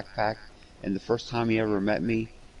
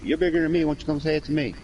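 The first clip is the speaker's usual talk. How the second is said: higher, louder confrontational quote; re-enacted challenge; 7 semitones higher, 3 dB louder, faster than usual. Standing up to a bully for a kid, re-enacted challenge. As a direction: square up to a bully.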